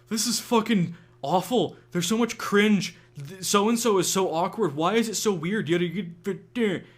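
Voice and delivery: high, loud whiny imitation of griping; mock complaining. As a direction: parody a chat full of exaggerated disgust. Mimics complaining event chat.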